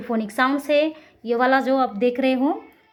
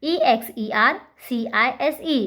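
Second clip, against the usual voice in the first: slow spelling out. Shown as a demonstration. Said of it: "next".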